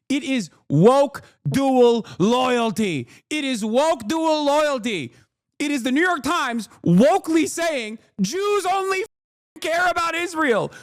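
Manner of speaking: high-pitched, drawn-out exasperation; losing his mind. Real, not acted. Streamer fed up with the Times' take, losing his mind. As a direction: stretch each point out, pitched high in disbelief. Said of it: "I'm losing my mind".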